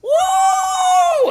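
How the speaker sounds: very high, loud woo; very high whooping yell; wrestler's woo. Retold or imitated. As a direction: scream it mid-jump. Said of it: "I was like".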